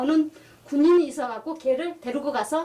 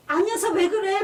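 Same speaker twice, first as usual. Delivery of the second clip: higher-pitched imitation of flustered son; flustered amusement; 6 semitones higher, 3 dB louder than usual. Puzzled son answering mother's odd questions, flustered. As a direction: retell a bewildered, half-amused protest. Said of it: "당황해서 막 웃으면서".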